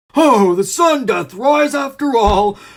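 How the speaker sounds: overjoyed. A character speaking after eating dragon food, elated.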